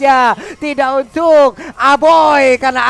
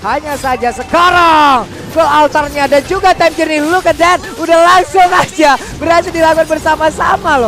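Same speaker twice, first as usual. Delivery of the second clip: excited shout; 3 semitones higher, 6 dB louder than usual. Real, not acted. Caster hypes a combo play.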